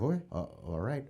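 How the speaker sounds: low, soft, hesitant acting; meek compliance. Teenager obeying the cop, imitated meek mumble. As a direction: give in quietly, as a scared teen.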